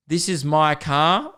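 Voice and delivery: slow, drawn-out imitation of disbelief; mock disbelief. Car owner finding a bike in his boot, imitated slow disbelief. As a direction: stretch it out as if stunned. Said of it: "he was in disbelief".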